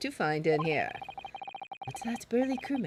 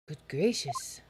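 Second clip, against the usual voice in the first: hushed shocked whisper; 5 semitones lower, 4 dB quieter than usual. Acted. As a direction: breathe it out in surprise. Character gasps at cabin.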